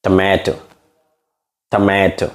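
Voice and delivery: British tomato with a crisp T in টমেটো; demonstrating British pronunciation; British accent. Shown as a demonstration. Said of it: "British accent লয় নে".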